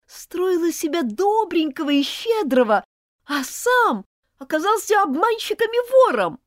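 high, loud outraged accusation; angry and contemptuous. Acted. Elizabeth accuses Martin of theft, high and furious. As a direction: hurl it at him, betrayed and furious. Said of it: "с гневом и презрением".

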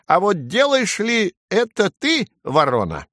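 high, slow, pointed bird challenge; miffed sparrow, drawn out; angry sparrow. A narrator's reading. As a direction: challenge the crow in a high little voice. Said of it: "рассердился воробей".

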